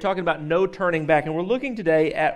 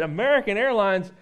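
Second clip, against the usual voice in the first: American Airlines? asked higher in mock disbelief; scornful disbelief; 4 semitones higher than usual. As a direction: barber scoffs at the customer's airline, incredulous and higher. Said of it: "And then the barber started in".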